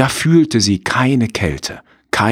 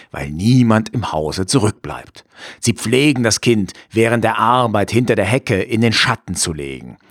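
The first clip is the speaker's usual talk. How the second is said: wolf voice; 2 semitones higher than usual. Acted. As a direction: coax like a cunning wolf. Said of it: "sagte der Wolf".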